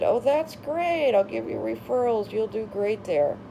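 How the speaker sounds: mock gushing congratulations; imagined happy congratulations. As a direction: play the friend who should have cheered. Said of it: "You'd think she would have been so happy for us and said".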